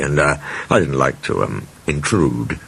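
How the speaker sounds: awkward hesitant excuse. Acted. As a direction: fumble for a cover story. Thomas evasive excuse.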